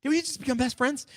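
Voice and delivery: high, giddy movie-quote delivery; Step Brothers quote. Retold or imitated. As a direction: play the Step Brothers line gleefully. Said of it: "Step Brothers, get the reference".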